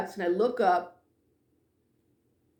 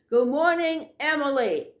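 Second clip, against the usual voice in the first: a raised, called-out greeting; calling out greeting; 4 semitones higher, 3 dB louder than usual. Retold or imitated. To an absent coworker through the office, calling out. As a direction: call it through the office ahead of you. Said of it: "and I'm yelling".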